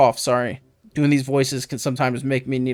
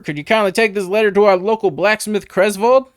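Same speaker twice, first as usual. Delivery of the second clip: higher, lightly country-tinged villager voice; a folksy villager, a touch raised; 5 semitones higher than usual. Acted. Villager asking the keeper a favour, mild country voice. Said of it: "I gave him a country voice".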